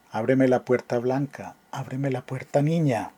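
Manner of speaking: measured, expressive ballad reading; poem recital. Acted. Teacher reading the ballad to class, expressive recital. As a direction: recite the old romance with feeling.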